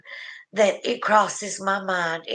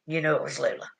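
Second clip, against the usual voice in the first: lower, softer echo of the line; soft repeat; 4 semitones lower, 7 dB quieter, much faster than usual. Shown as a demonstration. Repeating it softly to Melissa, quieter. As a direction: say it again, gently, almost to yourself.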